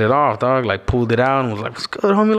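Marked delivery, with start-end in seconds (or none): 1.7-2.4 imitating a gang member.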